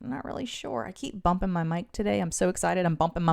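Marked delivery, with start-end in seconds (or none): 0.0-0.8 retold quiet answer. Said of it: "I'm like".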